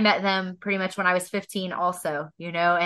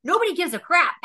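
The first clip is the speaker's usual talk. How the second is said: higher, self-pitying wail; mock sobbing lament; 8 semitones higher than usual. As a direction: whine it like a heartbroken teenager who slammed the door. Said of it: "full sobbing".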